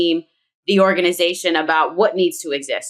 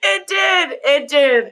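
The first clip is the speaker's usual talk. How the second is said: high, laughing cry of Oh my gosh; laughing shriek; 13 semitones higher, much slower than usual. Real, not acted. Caught saying John, she shrieks with laughter. Caught out on her Philly accent.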